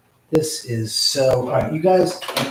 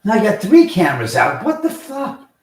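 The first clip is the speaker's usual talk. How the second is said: loud, higher outraged outburst; angry shout; 9 semitones higher, 10 dB louder than usual. Real, not acted. Streamer finds three cameras out, loud outraged shout. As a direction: blow up at the failing cameras.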